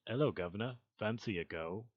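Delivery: lightly attempted posh British accent; tentative posh British impression. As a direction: test a mock British greeting. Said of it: "That sounds kinda like that".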